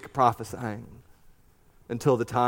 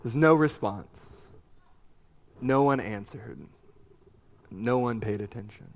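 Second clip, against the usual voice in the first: sad; 2 semitones lower, 3 dB quieter than usual. Shown as a demonstration. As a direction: let the sadness sit in each word. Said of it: "I hear sadness in this sentence".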